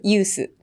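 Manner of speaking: "ユース" the Japanese way, "yuu-su"; katakana pronunciation. Shown as a demonstration. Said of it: "日本、カタカナで言う". (「ユース」をカタカナ読みで)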